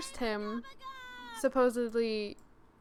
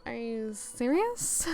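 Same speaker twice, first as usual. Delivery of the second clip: drawn-out disbelief; slower than usual. Retold or imitated. Acts out own disbelief at author.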